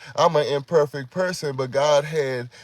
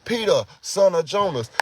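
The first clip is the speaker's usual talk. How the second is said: higher, solemn call of Jesus to Peter; 5 semitones higher than usual. Acted. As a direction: call his name like the Lord calling back. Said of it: "hear that voice come back and say".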